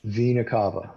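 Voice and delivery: one word at a time, clearly separated; staccato. Shown as a demonstration. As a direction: say each word alone for the class to repeat. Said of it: "one word at a time".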